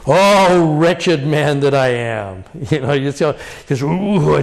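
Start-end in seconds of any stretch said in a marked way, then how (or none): 0.1-2.4 slow, aching cry of despair; anguished lament. Shown as a demonstration. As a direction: let the "Oh" burst out, then sink into the lament. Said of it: "Here comes the lament".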